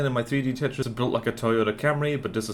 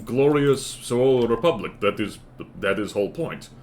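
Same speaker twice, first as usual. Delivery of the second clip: proud put-on Soviet-style comrade accent; a hint of a Soviet-style patriot; mock comrade accent. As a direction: hail the Swole Republic in a comrade accent. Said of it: "your accent is inconsistent".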